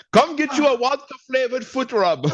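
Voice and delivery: high, hammed-up Russian hawker voice; mock Russian accent. Russian vendor offering a foot rub, high mock Russian accent. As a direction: sell it like a Russian street vendor.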